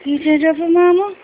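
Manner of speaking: coaxing a pet. Real, not acted. Coaxing the dog to stand.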